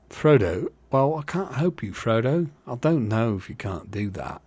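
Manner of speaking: lightly voiced working-class hobbit; a hint of a simple working man; Sam, simple working guy. Shown as a demonstration. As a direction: try out a plain working fellow's voice. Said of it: "who's just a simple working guy".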